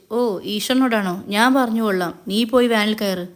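understated derisive tease; mocking. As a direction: brush off the plea with mild mockery. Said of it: "കളിയാക്കിക്കൊണ്ട് Mahesh".

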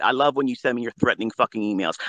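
ordinary talk, nothing marked

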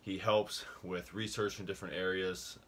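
slightly winded while talking; out of breath. Real, not acted. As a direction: talk a little short of breath. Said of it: "I don't know why I'm out of breath".

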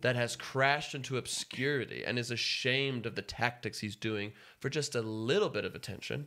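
upbeat host welcome; show host. Acted. Hosts the show intro.

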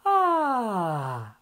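a descending chest-voice "Ah" slide; demo vocal sigh. Shown as a demonstration. Teacher models the exercise for students. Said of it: "Faz esse som".

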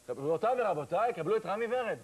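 lightly voiced stage announcer call; mock announcer. Comic introducing himself, as a mock announcer. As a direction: boom it out like an MC. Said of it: "צועקים במיקרופון".

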